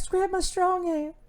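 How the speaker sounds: high, slow, eerie movie villain voice; creepy movie voice. Retold or imitated. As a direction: drawl it out high and slow like a creepy horror character. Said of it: "J P P be like".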